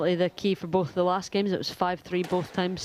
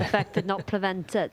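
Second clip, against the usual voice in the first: Welsh accent. Shown as a demonstration. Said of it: "It's a lot better than mine".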